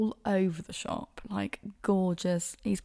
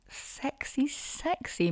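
breathy whispered "sexy"; sultry whisper; 7 semitones higher, 4 dB quieter, much slower than usual. Pretend. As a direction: whisper it seductively. Describing a sexy kiss.

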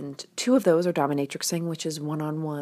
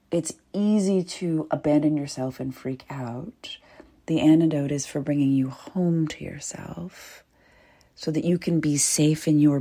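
whispering; 3 dB louder than usual. Real, not acted. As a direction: breathe it close to the mic. Intimate ad whisper.

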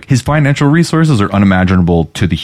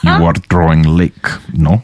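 put-on Russian accent; 2 semitones lower than usual. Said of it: "I want to do a Russian accent".

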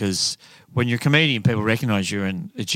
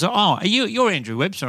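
higher-pitched imitation of an emphatic stranger; emphatic recognition; 9 semitones higher than usual. Comic imitates a stranger mistaking him for an author, emphatic. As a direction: blurt it out as if spotting someone famous. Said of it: "it was really quite emphatic".

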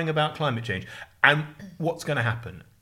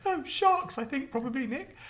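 put-on high, small kid's answer; child voice; 13 semitones higher, 3 dB quieter than usual. Schoolboy telling his friend his fear, high kid voice. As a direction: answer like a little boy. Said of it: "And I went".

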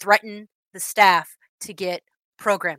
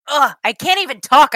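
loud exasperated ugh; annoyed ugh; 7 semitones higher, 8 dB louder than usual. Real, not acted. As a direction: spit out the frustration, too angry to speak. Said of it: "I'm so angry".

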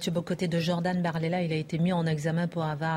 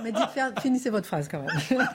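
laughing; 3 semitones higher than usual. Real, not acted. Host laughs while urging.

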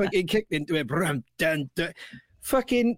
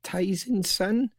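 questioning slowly; 3 semitones higher, much slower than usual. Shown as a demonstration. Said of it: "Julie Penn has said".

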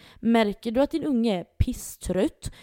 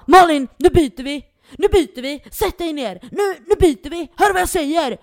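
loud, raised barking at his partner; arg pappa skriker; 6 semitones higher, 9 dB louder than usual. Retold or imitated. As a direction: bark orders at the partner across the table. Pappan skäller på mamman. (arg pappa som skäller högt på mamman)

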